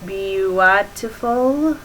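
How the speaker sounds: "beautiful" slowly sounded out as bee-yoo-AH-tiful; "beautiful" read syllable by syllable as bee-yoo-ah-ti-ful; misspelling read aloud. Shown as a demonstration. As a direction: drag "beautiful" out as the typo spells it. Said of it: "worst spelling of beautiful".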